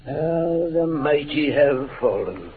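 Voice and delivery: slow, grand stage delivery; theatrical actor reading. Acted. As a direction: declaim it like an old stage actor. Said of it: "you read that like an actor".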